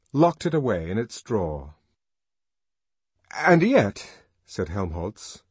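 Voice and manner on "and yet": apologetic protest. A narrator's reading. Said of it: "having recovered breath enough to apologize".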